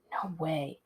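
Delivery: a soft, hushed aside, not fully whispered; quietly refusing his friend, leaning close. Acted. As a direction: lean in and drop the voice to a secret. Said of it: "I bent toward him and whispered".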